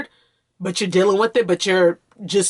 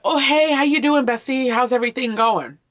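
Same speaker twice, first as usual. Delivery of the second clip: bright, higher, chirpy small talk; cheery greeting; 6 semitones higher than usual. Retold or imitated. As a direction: mimic a breezy acquaintance asking how you are. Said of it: "if someone said".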